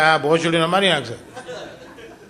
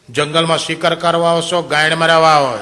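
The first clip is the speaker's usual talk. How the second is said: punchy louder taunting punchline; louder mocking punchline question; 4 dB louder than usual. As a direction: throw the tiger's jibe out loud.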